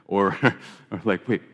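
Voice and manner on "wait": "Wait, what happened" rising high, puzzled; confused surprise. Shown as a demonstration. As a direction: ask as if you missed something. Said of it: "depending on the inflection".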